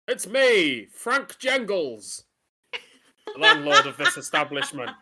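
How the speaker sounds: pub landlord voice. Acted. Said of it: "a good pub landlord, um, doesn't sound like you do".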